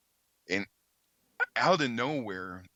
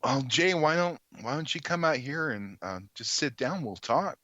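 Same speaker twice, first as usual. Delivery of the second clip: coaxing; 5 semitones higher than usual. Retold or imitated. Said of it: "I'm like".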